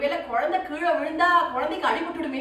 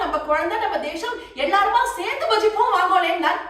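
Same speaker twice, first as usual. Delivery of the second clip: urgent pleading; 3 semitones higher, 3 dB louder than usual. Acted. Mother tells the court of her son's miracle, mildly urgent, rising appeal. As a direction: build from breathless news to a raised appeal.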